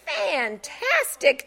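insincere. Acted. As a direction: say it like you don't mean it. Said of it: "brimming with insincerity".

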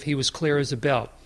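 whisper. Real, not acted. Aside about Joseph.

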